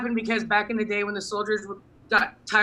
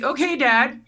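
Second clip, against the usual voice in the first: wary okay; 5 semitones higher, 4 dB louder, slower than usual. Retold or imitated.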